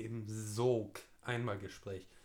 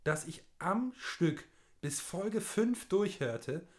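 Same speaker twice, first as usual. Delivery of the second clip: slow, raised, theatrical read; dramatic reading; 5 semitones higher, slower than usual. Acted. Dramatic reading of fan mail.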